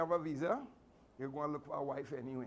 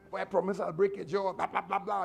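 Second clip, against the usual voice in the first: mock threat; 6 dB louder than usual. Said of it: "all kind of threats and promises".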